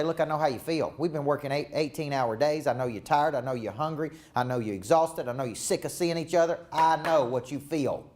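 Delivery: understanding, reassuring lead-in; empathetic team talk. Shown as a demonstration. Coach demonstrating a meeting opener for Drew. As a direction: show them you feel their fatigue. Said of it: "You get up and say".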